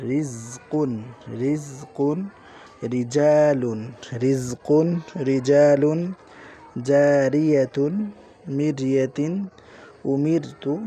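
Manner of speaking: teacher's loud review. Shown as a demonstration. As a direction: call the words out loud for the class. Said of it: "এই হরফগুলো আবার পড়ি একবার".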